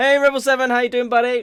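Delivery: shouting. Greeting a viewer in the chat during a stream: shouting. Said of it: "I don't know why I'm shouting".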